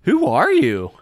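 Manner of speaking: a lightly voiced elf, suddenly alert; wary elf. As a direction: ask the stranger in your face who he is. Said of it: "He says".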